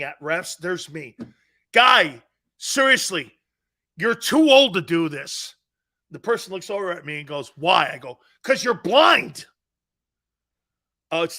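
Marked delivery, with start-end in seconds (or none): 1.7-9.5 mock heckler yelling at the ref; heckling yell. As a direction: jeer at the referee from the fence.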